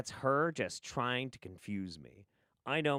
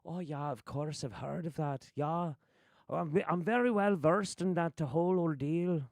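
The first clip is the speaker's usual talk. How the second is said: mock know-it-all, pitched up; put-on higher voice, falsely knowing; Mark Bayerski; 4 semitones higher than usual. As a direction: imitate a bluffer claiming to know it all. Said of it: "he'd be like".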